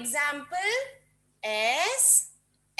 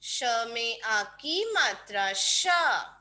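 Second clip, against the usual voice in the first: slow drawn-out syllable dictation; 2 semitones lower than usual. Shown as a demonstration. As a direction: chant it slowly for kids to write. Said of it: "बोल बोल के लिखेंगे".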